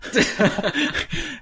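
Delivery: sudden high-pitched laugh; burst of laughter. Real, not acted. Reacting to the barbecue perfume idea with a high laugh. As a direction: crack up at the absurd idea.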